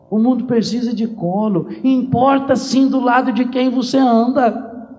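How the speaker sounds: high, loud, shouted preaching; a passionate final appeal, slowing on desse amor; preaching at full force. Acted. Priest urging listeners to seek love, shouting preaching.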